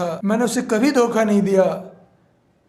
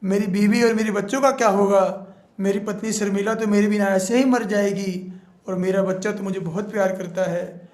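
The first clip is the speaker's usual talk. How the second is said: higher, fast frantic pleading; begging; 4 semitones higher than usual. Acted. Lagandev begs the witch to let him go home. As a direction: beg to be let go. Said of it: "फिर लगनदेव कहता है".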